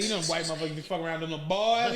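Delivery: quick retold Southern old-timer voice; a rapper's voice. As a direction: rattle it off fast the way the coworker said it. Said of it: "he sounded just like a rapper".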